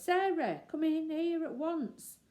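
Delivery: high, loud call. Acted. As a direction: call her in urgently. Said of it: "he called in a loud voice".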